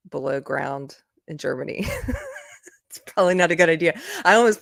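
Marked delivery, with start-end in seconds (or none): 1.9-2.4 short high squeal of laughter; a giggle escapes. Real, not acted. Laughs at sushi story.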